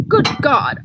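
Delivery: a sharp, startled exclamation; exclaiming. Acted. Archer to the Frenchman, exclaiming in shock. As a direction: burst out with it. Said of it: "Archer exclaimed".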